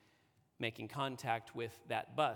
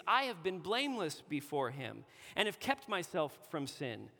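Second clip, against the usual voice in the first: raised, declaiming scripture voice; scripture reading; 3 semitones higher than usual. Acted. Preacher reading David's psalm to the congregation, declaiming. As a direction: proclaim David's words to the congregation.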